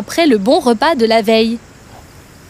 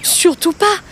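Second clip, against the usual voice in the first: scared cry; 4 semitones higher than usual. Acted. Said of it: "cria le crocodile, visiblement effrayé".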